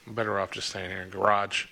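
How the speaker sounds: "garage" said the American way, stress on the last syllable. Shown as a demonstration. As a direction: end on an American "garage" that sounds like "guh-RAHJ". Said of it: "almost sounds like a Boston accent".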